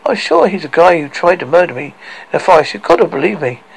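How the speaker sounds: lightly voiced woman begging belief; pleading Lily White.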